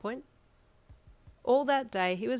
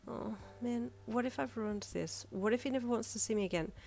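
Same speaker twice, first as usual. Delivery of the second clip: anxious inner worry, higher and softer; panicked thoughts; 4 semitones higher, 4 dB quieter than usual. A narrator's reading. Yin panicking alone that she ruined things, anxious. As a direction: fret quietly to yourself in a panic. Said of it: "you thought in a panic".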